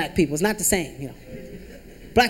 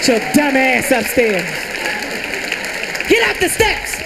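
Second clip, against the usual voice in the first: scared mom snapping; slower than usual. Acted. Mom scared, orders kid away.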